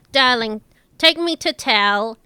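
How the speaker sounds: teasing Orla. Acted. Orla teases the brawny Thrun, lightly condescending. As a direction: purr a gentle put-down.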